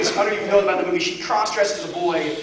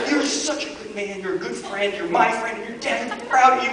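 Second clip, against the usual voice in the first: pep talk. Retold or imitated. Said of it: "giving him this pep talk".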